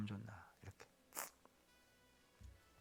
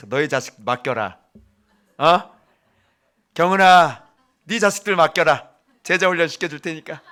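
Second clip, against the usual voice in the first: mock grandpa offer; 2 semitones higher, 8 dB louder than usual. Preacher imagines grandfather speaking.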